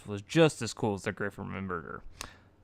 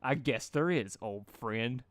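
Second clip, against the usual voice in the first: serious; slower than usual. Acted. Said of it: "replied Rainbow Dash seriously".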